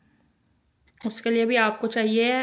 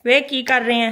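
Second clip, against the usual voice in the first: Punjabi "वे"; 2 semitones higher, 7 dB louder than usual. Shown as a demonstration. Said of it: "वो जो पंजाबी वाला होता है ना".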